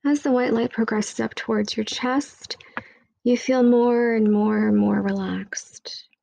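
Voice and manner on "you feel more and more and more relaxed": whisper. Acted. Whispered meditation line.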